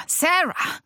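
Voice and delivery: high, urgent cry of the name; alarmed call. A narrator's reading. Man holding an unresponsive woman, alarmed cry. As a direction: call out to rouse her.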